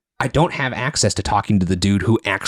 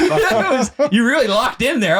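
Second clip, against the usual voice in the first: excited; 13 semitones higher than usual. Real, not acted. Excited reaction to the poem.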